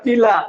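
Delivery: पीला with a long ee; stressed long vowel. Shown as a demonstration. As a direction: lean on the first vowel of पीला. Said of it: "जहां जोर लगे आपको".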